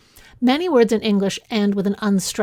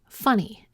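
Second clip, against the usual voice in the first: "funny" as FUN-ny; first-syllable stress. Shown as a demonstration. Teacher contrasts two words, stress on first syllable. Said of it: "the stress is on the first syllable".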